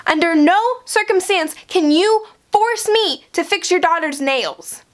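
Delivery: mocking the stubborn guy. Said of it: "and he says".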